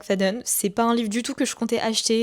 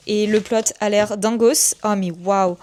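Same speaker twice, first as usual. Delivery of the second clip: loud, drawn-out excited gush; émerveillement enthousiaste; 5 dB louder, slower than usual. Real, not acted. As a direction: gush over a thrilling find, loudly. S'emballe pour le livre découvert. (enthousiasme débordant, voix forte)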